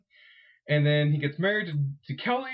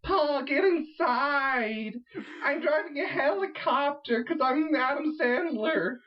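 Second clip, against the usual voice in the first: put-on high, slow, terrible Jewish-accented mom; Adam Sandler in drag, bad Jewish accent; 11 semitones higher, slower than usual. Adam Sandler as the mom, terrible Jewish accent. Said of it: "his terrible, uh, Jewish accent".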